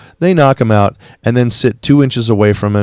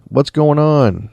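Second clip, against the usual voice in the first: higher-pitched, lightly raised retold call; half-hearted holler, pitched up; mock calling out; 5 semitones higher than usual. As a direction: imitate a sheriff calling to someone out back. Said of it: "yelling back there".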